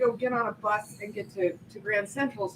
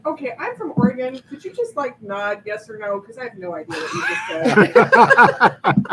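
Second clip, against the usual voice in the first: exasperated retold shout; 9 dB louder than usual. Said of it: "And I said".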